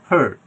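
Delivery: "হার্ট" as "huht", silent r; hesitation vowel. Shown as a demonstration. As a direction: lift the tongue and check the air on "হার্ট". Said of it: "এইভাবে উচ্চারণ হলে এটা hesitation আ". ("হার্ট" hesitation আ দিয়ে)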